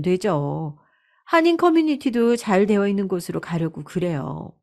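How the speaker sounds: lightly voiced coaxing daughter-in-law; persuading daughter-in-law. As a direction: gently talk mother-in-law round, with a lilt. 며느리가 시어머니를 설득함. (시어머니를 살살 설득하는 며느리 말투)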